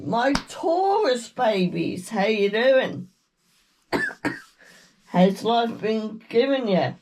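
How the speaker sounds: ordinary talk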